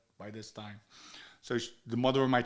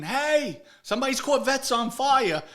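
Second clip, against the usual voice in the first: high, loud alarmed call; mock shout of alarm, pitched way up; someone raising alarm; 12 semitones higher, 6 dB louder than usual. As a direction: burst in calling out the news. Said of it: "somebody's gonna come in".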